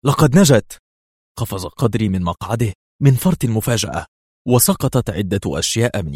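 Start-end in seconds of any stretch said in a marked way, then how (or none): 0.0-0.8 loud, high, jubilant exclamation; gleeful cry. A narrator's reading. Agent announcing colleague's escape, gleeful shout. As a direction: burst in with joyful news. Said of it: "وهو يهتف في جذل".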